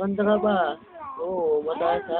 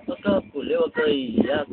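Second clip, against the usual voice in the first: put-on baby talk. Coaxing baby not to cry.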